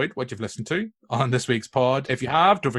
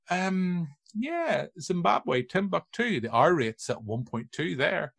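Nurse Ratched type; 5 semitones higher, 3 dB quieter, slower than usual. Retold or imitated. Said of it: "Nurse Ratched type character".

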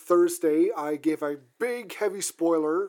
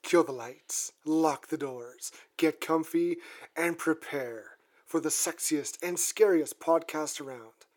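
horror host; slower than usual. Acted. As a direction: draw it out like a horror show host. Spooky podcast intro.

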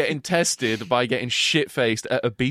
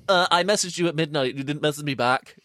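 whiny mock quote; 2 semitones higher than usual. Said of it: "when you bring up shit like".

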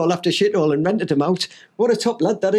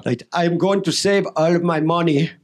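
attempted Austrian accent; 3 semitones lower than usual. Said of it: "have a go at it".

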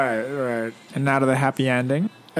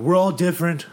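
speechmaker voice; 4 semitones higher, 3 dB louder than usual. Retold or imitated. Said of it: "It's like".

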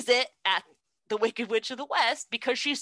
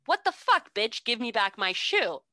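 mock outraged Dorothy; 3 semitones higher than usual. Dorothy yelling at the witch for her shoe. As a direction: yelp it like an offended girl.

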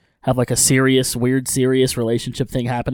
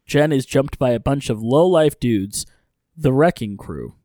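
brisk, animated story-recap read; recap narration. A narrator's reading. Host recapping an episode for listeners, recap narration.

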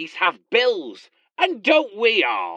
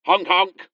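goose honk catchphrase; clown honk. Pretend. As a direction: silly honk honk. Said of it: "Why do you keep honking?".

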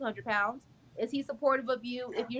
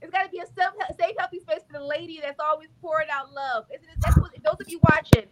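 emotional praise; 3 semitones higher, 5 dB louder than usual. Real, not acted. Praising friend while emotional.

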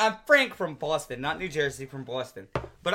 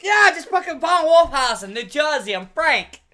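Frank the caller; 6 semitones higher, 4 dB louder than usual. Retold or imitated. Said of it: "And then I was like".

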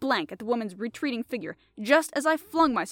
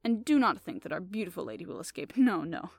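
mild reproof. Acted. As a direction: tick him off gently. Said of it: "tone of mild reproof".

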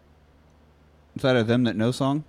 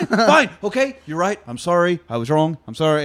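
broken apology; 4 semitones higher than usual. Retold or imitated.

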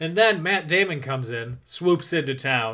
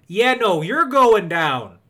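louder, drawn-out Wisconsin threat; Wisconsin accent; 5 semitones higher, 6 dB louder, slower than usual. Acted. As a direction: threaten with stretched Wisconsin vowels. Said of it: "if he was in Wisconsin".

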